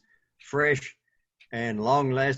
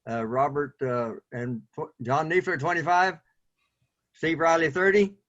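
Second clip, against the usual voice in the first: auctioneer. Acted. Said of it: "puts on his auctioneer, uh, gear".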